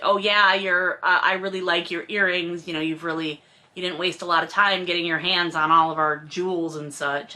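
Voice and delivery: lightly voiced catty compliment; snide mother-in-law.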